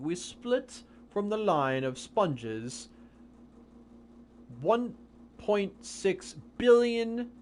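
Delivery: lightly put-on posh English accent, slow, rising on the numbers. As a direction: read it out in a mild British accent, savouring the figures. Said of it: "in her English accent".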